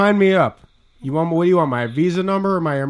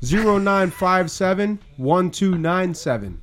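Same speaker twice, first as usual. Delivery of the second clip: slow dictation; 3 semitones higher, slower than usual. Real, not acted. Continues slowed dictation for caller.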